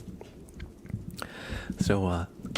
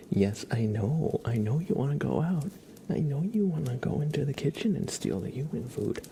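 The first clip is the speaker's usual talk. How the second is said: pet talk; 5 semitones higher than usual. Real, not acted. Talking fondly to her cat.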